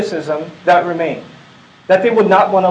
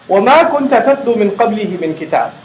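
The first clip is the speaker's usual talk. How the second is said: Quran recitation; much faster than usual. Acted.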